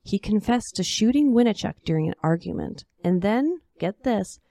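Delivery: put-on lively old-time storyteller voice; story narration. A narrator's reading. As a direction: tell it like a tall cowboy tale.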